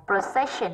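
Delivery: "procession" slowly, stressed on "ces"; second-syllable stress. Shown as a demonstration. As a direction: lean on the middle of "procession". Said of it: "âm hai".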